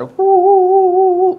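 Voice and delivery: high mocking yelp; hammed-up fake sob that sounds like jeering; mock crying yelp. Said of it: "itu ngolok sih tadi". (teriakan mengejek pura-pura menangis)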